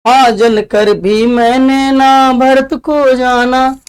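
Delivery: slow, sung-out verse reading; poem recitation. Acted. Teacher reciting Kaikeyi's verse to the class, slow and measured.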